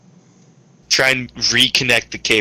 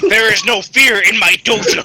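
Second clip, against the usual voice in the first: mock sensei; 9 semitones higher, 3 dB louder than usual. Quoting karate movie sensei.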